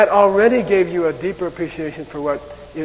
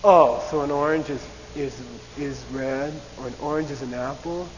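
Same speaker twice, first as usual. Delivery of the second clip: sarcastic mock question; 2 semitones lower than usual. Shown as a demonstration. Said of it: "sarcastic absurd question".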